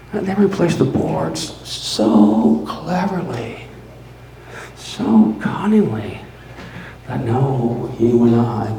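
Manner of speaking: slow, savoring each word with cunning; sly slow gloat. Acted. Narrator gloating to listeners about his cleverness, slow and sly. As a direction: draw it out like a proud schemer. Gloating over hiding the body.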